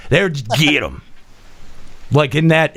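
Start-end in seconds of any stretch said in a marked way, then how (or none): 0.3-1.0 deep, quiet menacing growl; low menacing voice. Retold or imitated. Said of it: "in that tone of voice".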